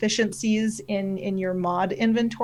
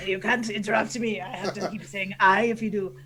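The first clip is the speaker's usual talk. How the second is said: lightly held pirate voice; pirate mock-scolding an interrupter; Canadian pirate. Scolding co-host for interrupting, light Canadian pirate voice. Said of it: "your Canadian pirate voice".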